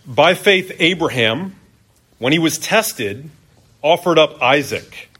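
measured reading aloud with deliberate pauses; scripture reading. Real, not acted. Preacher reading Hebrews to the church, measured scripture reading. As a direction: read it out phrase by phrase to a congregation. Reads the Bible passage aloud.

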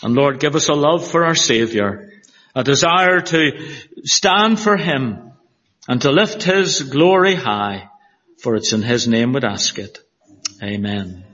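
earnest pulpit prayer voice; steady, earnest prayer read. Acted. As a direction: pray it over the congregation, reverently. Pastor leads congregation in prayer.

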